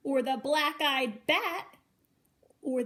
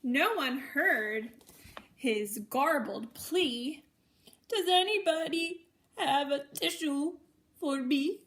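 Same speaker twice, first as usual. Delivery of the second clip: sing-song storybook reading, each line lifted; reading to children. A narrator's reading. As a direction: read it like a bedtime picture book for little ones. Reads a picture book to children.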